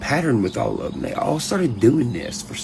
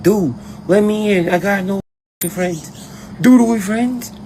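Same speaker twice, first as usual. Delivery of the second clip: high, pleading mock voice; mimicked visitor; 8 semitones higher than usual. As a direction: imitate a needy pest begging entry. Mimics visitor at his gate.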